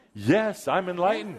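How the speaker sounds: with attitude. Shown as a demonstration. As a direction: say it like you own it, a bit cocky. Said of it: "you have to say it with a bit of an attitude, some acting".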